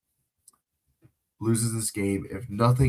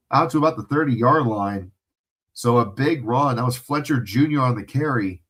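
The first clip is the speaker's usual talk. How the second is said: louder, quicker broadcast call of the play; 3 dB louder than usual. Acted. Streamer calling the Miami drive for viewers, louder play-by-play. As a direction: call the run like a game announcer.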